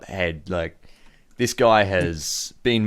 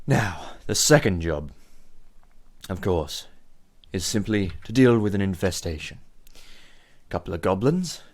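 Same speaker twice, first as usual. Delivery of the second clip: measured gang boss. Acted. Boss orders visitors to kill goblins, deliberate and menacing. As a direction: give orders as a theatrical crime boss.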